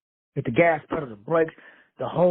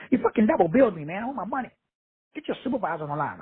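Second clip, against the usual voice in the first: imitating angry caller; 4 semitones higher, faster than usual. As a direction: play the fuming caller demanding a supervisor. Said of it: "they would be going cursing".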